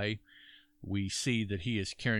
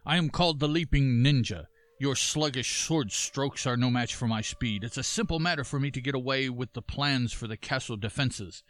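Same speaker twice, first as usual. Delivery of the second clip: lightly voiced bragging ninja, louder; boastful ninja, a touch raised; leaping ninja voice; 4 semitones higher, 4 dB louder than usual. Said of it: "that's my leaping ninja voice".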